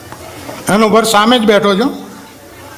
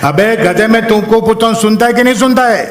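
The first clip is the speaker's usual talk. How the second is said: mock policeman; 5 semitones higher than usual. Policeman shouting at cyclist.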